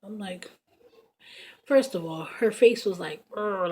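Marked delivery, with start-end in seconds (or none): 3.3-3.7 short imitated pit bull growl; mock dog-like "urgh". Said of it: "like a pit bull".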